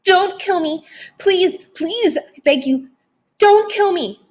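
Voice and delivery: high, terrified pleading; begging for mercy. A narrator's reading. Panicked child begging, voice way up. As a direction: Wendell on his knees begs the vampire, high terrified plea. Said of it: "begging for mercy".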